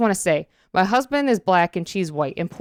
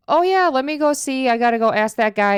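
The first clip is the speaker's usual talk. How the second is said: higher-pitched, lightly voiced store lady; imitating store lady; 6 semitones higher than usual. Store lady to a customer asking about a TV, higher helpful imitation. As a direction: play the store worker being helpful. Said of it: "I'm gonna try to do the voices".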